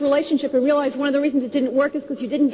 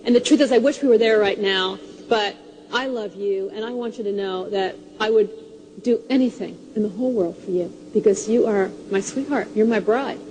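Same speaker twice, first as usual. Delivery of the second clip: tender husband; 5 semitones lower than usual. Retold or imitated. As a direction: gently tell her how much you love her. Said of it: "he said".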